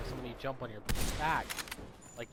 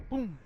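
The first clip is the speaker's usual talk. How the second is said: high, punchy "boom"; sudden boom as an impact noise; imitated impact boom; 8 semitones higher, 3 dB louder than usual. Narrator acts out the guy landing on his back, sudden high boom.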